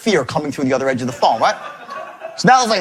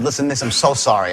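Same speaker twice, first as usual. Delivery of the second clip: lower, subdued retold apology; apologetic; 5 semitones lower than usual. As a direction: soften after making someone cry. Retold apology to crying caller.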